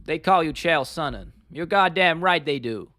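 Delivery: slow, drawn-out American fighter impression; Chael Sonnen. Streamer quoting a fighter's catchphrase, slow Godfather-like voice. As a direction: stretch each word like a Godfather character. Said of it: "He speaks like he's in The Godfather".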